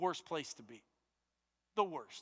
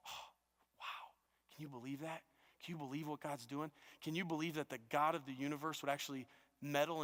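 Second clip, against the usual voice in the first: awestruck hush; 2 semitones lower, 5 dB quieter than usual. Retold or imitated. A preacher voicing a believer's awestruck hushed wonder. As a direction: breathe it in quiet amazement.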